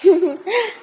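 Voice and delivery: a short high laugh; quick high giggle; bright laugh. A narrator's reading. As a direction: laugh warmly before speaking. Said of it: "Cô ta cười tươi".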